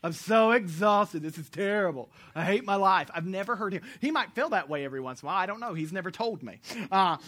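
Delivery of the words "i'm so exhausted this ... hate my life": put-on weary whine, drawn out slowly; mock exhausted complaint. Pastor imagined complaining of exhaustion, mock-weary. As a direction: ham up being worn out, a little louder. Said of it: "I've never seen him come".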